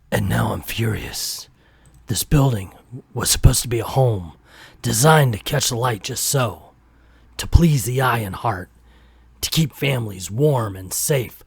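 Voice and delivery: a hint of brooding noir narration; lightly voiced hardboiled monologue; noir detective. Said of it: "I'm gonna read it like a noir".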